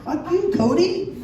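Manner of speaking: high, drawn-out taunt at a bully; slow, high-pitched mock fury; mock angry outburst. Mock confrontation with a bully kid.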